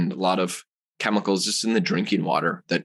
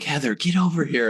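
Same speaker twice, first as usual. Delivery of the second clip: higher-pitched imitated call to wife; mock yell; 6 semitones higher than usual. Husband summoning his wife from the bathroom, mock yell. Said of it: "I yell at my wife".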